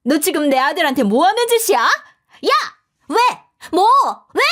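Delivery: high, loud furious yell; yelling mother-in-law. A narrator's reading. Mother-in-law yelling at the narrator, high furious yell. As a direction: scream it at the daughter-in-law. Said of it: "제게 소리치는 예비 시모".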